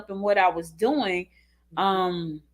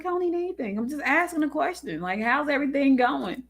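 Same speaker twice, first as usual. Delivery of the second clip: innocent protest; 5 semitones higher than usual. Retold or imitated. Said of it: "And I'm like".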